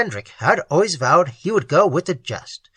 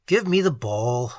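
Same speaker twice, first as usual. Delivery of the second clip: a mild, lowered groan; 3 semitones lower than usual. Acted. Husband resigned to his fate, a mild groan. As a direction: sound defeated and heavy. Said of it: "Ted's voice groaned".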